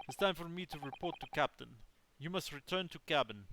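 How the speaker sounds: gruff Russian guard; smug Russian seaman; Russian accent. Acted. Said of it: "sorry to literally anybody who actually has a Russian accent".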